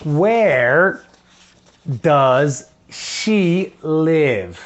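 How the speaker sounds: "does she live?" drawn out very slowly; slow model question. Shown as a demonstration. Teacher drills the question slowly for first graders. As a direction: stretch each word for the class to copy. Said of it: "Ok, so".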